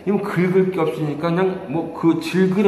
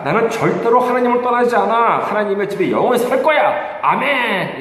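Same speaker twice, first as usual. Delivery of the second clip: raised, louder cry of conviction; emphatic faith declaration; 6 semitones higher, 4 dB louder than usual. Acted. Believer answering Satan with faith, a forceful raised declaration. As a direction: proclaim it firmly, high and forceful. Preacher models a defiant faith confession.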